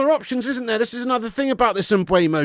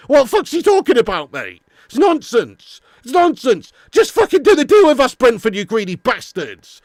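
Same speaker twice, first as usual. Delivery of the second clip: angry rant; 3 semitones higher, 5 dB louder than usual. Real, not acted. Ranting at Brentford club.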